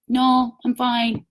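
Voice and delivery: slow, drawn-out polite brush-off; uninterested refusal. Acted. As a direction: turn it down slowly, with no interest. Acted customer declining a dull pitch.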